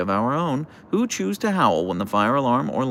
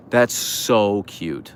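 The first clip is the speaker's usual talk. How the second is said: gushing coo; 3 dB louder, much slower than usual. Real, not acted. Cooing over the dogs on stream.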